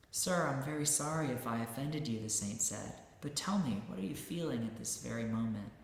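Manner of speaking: lively storybook reading, voicing each character; reading a story aloud. Teacher reading a parable to listeners, lively storytelling. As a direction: read the saint's tale to the audience, dramatizing it.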